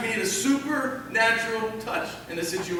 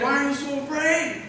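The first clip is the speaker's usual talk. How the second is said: questioning Jesus; 4 semitones higher than usual. Acted. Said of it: "so he said".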